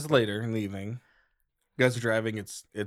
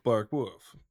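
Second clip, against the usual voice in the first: whispered bark. Acted. Dog voice fades to whisper.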